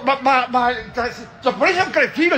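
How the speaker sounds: usual speaking voice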